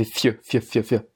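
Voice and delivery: "ф" as fy with a very short glide; softened f, hardly any vowel, on "ф"; soft f. Shown as a demonstration. Teacher drills the soft-sign f, short glide. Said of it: "ça fait ф".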